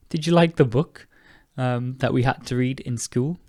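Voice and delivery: a hint of an eager friend; lightly voiced friend. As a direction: friend asking about a book. Acting out a friend's question.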